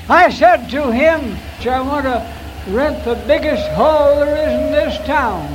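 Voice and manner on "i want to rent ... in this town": loud, insistent demand; emphatic declaration. Retold or imitated. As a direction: proclaim it firmly to the pastor. Demanding big hall.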